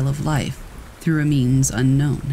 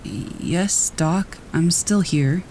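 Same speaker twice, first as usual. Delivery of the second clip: weak croak; 3 semitones higher, much slower than usual. Acted. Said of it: "a weak voice croaked".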